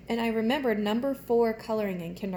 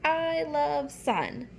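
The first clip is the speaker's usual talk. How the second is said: slow, sweet flower line; drawn out like a happy flower; 5 semitones higher, much slower than usual. Shown as a demonstration. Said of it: "And he says".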